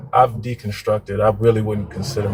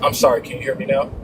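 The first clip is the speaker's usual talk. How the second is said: far from mic; 3 semitones higher, faster than usual. Real, not acted. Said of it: "you still sound very far away".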